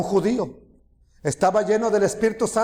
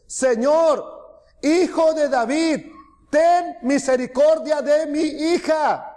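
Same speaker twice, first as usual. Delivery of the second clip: higher-pitched, mildly acted plea; retold crying out; 6 semitones higher, slower than usual. Canaanite woman clamouring to the Lord for her daughter, mild mock cry. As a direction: lightly imitate someone calling out for mercy. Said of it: "clamaba diciéndole".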